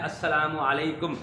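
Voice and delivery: "अस्सलामु अलैकुम" with no w between; teacher models "अस्सलामु अलैकुम"; correct greeting. Shown as a demonstration. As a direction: say "अस्सलामु अलैकुम", assalaamu alaikum. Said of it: "ये वाव के बगैर लिखना है".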